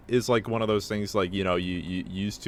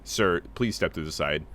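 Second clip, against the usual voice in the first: lower-pitched mock German officer; German accent; 4 semitones lower, 3 dB quieter than usual. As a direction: order politely in a put-on German accent. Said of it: "Hans get the Flammenwerfer accent".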